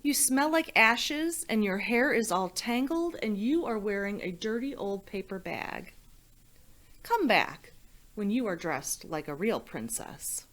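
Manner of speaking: lightly voiced prince scolding the messy princess; snooty prince. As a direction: sniff at her like a spoiled prince. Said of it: "He looked at her and he said".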